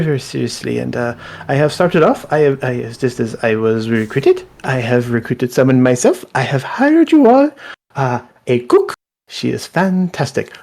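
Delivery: high, eager, formal servant voice; major domo voice. Acted. Steward welcoming the party home, high and eager.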